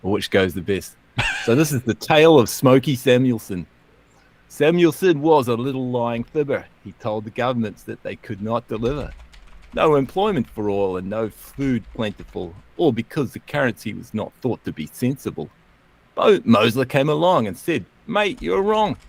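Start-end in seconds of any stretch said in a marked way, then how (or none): 1.4-17.8 lively rhyming recital, story told in verse; poem recital. Acted. Host reciting a mock Shakespearean poem on economics, lively. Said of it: "I'll do two poems". 18.1-19.0 mock Australian accent. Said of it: "in accents not entirely Australian".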